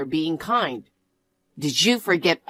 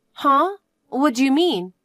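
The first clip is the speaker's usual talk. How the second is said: high, incredulous huh; you've lost me completely; baffled outrage; 7 semitones higher than usual. Acted. Partner confused by the contradiction, incredulous.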